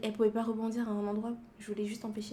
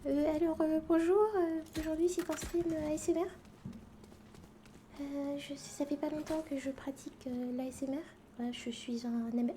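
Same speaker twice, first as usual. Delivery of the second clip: hesitant, higher-pitched beginner ASMR voice; mock ASMR intro; 4 semitones higher than usual. Beginner ASMR artist welcoming stream viewers, mock-gentle and halting. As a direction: play a timid ASMR host, halting with filler sounds.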